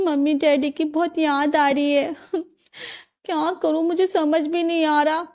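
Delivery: a touch of sadness, pausing; homesick, downcast. Acted. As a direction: confide homesickness to your husband. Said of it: "तुम उदास क्यों लग रही हो".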